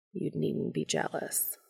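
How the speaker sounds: soft, gentle reassurance. A narrator's reading. Castiel reassures a jealous Dean, gently. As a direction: say it softly to calm a lover. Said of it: "he says gently".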